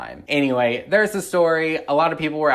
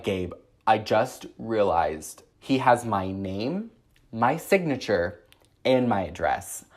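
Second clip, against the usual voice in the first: slow, deliberate item by item; dawning realization; 2 semitones lower, slower than usual. Retold or imitated. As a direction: let each alarming detail land slowly. Retelling alarming realization to Gabe.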